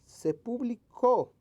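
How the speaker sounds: publicó with a high, drawn-out final CÓ; publicó stressed on CÓ, stretched out; stress on final syllable. Shown as a demonstration. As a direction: slowly land hard on the last syllable of publicó. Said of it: "que esté correctamente escrita".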